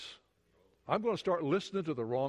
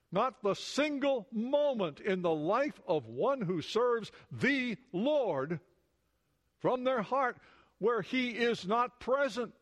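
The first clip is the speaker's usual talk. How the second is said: building fervor; 5 semitones higher, slower than usual. Real, not acted. Preaching builds to peak.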